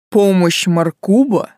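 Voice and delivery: slow, contemptuous spit; spat out. Acted. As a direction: spit the name out with scorn. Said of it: "выплюнул мой суккуб".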